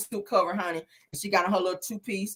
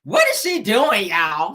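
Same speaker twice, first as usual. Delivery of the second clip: mock Tisha; 5 dB louder, slower than usual. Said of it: "So Tisha says".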